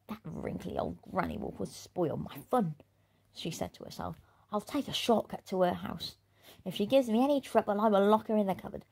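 lightly voiced, quick sly plotting; scheming bully girl. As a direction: plot the trick under her breath.

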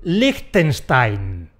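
Liechtenstein said slowly, lij-ten-shtain; careful Liechtenstein. Shown as a demonstration. Teacher giving the cultured version, slow. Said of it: "Cómo hay que decir".

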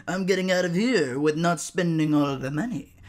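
giggly mock customer; mocking laugh. Imitating a customer cackling over the deal. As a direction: laugh through the scam.

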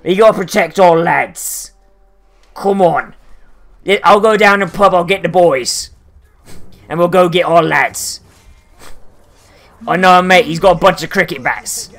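mock heavy British accent, lightly done; a hint of a British lad rallying his mates; playful British pub-talk accent. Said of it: "a fucking heavy British accent".

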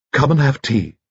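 piping, chirpy gentleman's voice; high-pitched little lord. A narrator's reading. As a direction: chirp like a cheerful old bachelor.

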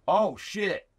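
high-pitched imitation of a taken-aback reaction; impressed surprise. Celebrity hears of a mutual friend, pleasantly stunned. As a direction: act out someone suddenly impressed. Richard reacts to hearing the connection.

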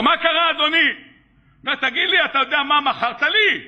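acted outraged customer; indignant confrontation. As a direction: confront the seller, worked up. Angry customer confronts vendor.

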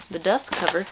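"dust cover" in a put-on Southern accent; casual Southern accent on "dust cover". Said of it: "I have a very strong southern accent".

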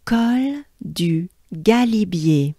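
"Col du Galibier" slowly, under the breath; slow whole phrase. Shown as a demonstration. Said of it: "So as a whole".

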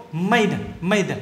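Made run straight into an "uh"; linked schwa. Shown as a demonstration. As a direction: link the d of Made onto a schwa. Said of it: "đọc nối âm ờ này luôn". (Made, nối âm d với âm ờ)

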